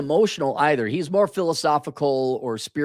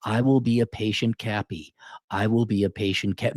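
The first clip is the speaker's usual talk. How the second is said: low monotone mock affirmation; reciting affirmations; 3 semitones lower than usual. Man parodying self-help affirmations, dutiful reciting. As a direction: recite it dutifully, a little lower. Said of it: "if you read affirmations".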